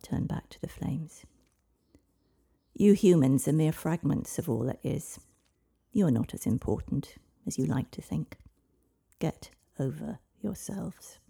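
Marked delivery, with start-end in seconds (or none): 2.7-11.2 a lightly otherworldly prophetic voice; dragon voice. Acted. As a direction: speak as an ancient dragon through the child. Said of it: "It was not her usual voice".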